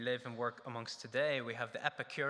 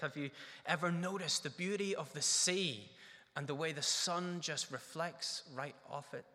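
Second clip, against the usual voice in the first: wondering question; 4 semitones higher than usual. Shown as a demonstration. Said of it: "It's a good way to start".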